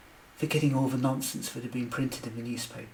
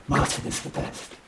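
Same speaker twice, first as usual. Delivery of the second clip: shy mumble. A narrator's reading. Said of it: "I mumbled shyly".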